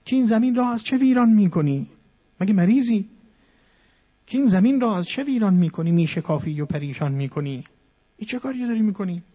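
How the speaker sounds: loud, high scolding protest; fool yelling. Retold or imitated. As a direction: yell at him as if he's mad. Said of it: "ابلهی فریاد کرد".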